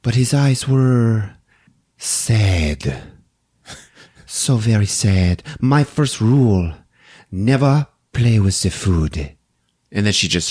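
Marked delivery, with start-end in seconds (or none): 0.0-9.3 slow, brooding voiceover with long pauses; Marie, inner monologue. Acted. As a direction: narrate her private thoughts slowly, phrase by phrase. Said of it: "She's got an inner monologue".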